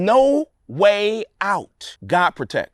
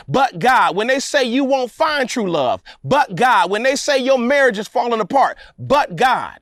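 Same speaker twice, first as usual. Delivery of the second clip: rhythmic preaching. Real, not acted. Preacher rallying the congregation, rhythmic litany. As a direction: build the litany like a revival chant. Chanted litany of "but God.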